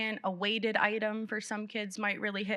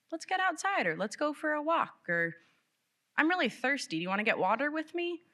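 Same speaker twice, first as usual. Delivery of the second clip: gentle offer; 8 semitones higher than usual. Shown as a demonstration. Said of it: "offer a simple".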